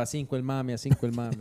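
vendor cry. Retold or imitated. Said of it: "ahí les gritaba".

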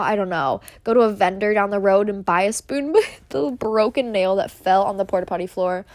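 giggling through the words; laughing while scolding a friend; laughing disbelief. Retold or imitated. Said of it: "I was like".

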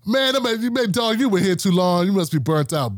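mock incredulity, high at first and easing down; incredulous coworker. Jaded coworker to an excited new temp, incredulous. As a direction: imitate a disbelieving coworker, starting high. Acts out coworker puzzled by his happiness.

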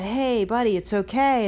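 mock comforting pat-on-the-head voice; soothing a scared dog. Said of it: "in a soothing voice".

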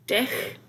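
"dick" said the German way; German "dick" on its own, like "dich"; German pronunciation. Shown as a demonstration. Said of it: "in Germany, the word dick".

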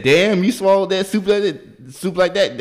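high, loud impersonated astonishment; mock amazement. Waiter to woman who ate the soup fast, amazed. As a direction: marvel loudly, imitating an amazed onlooker.

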